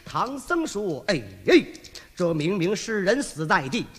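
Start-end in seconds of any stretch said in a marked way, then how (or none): 1.1-3.9 low, gentle monk's voice; Tang Seng. Acted. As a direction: speak as a humble, apologetic old monk. (低沉温和的唐僧声音)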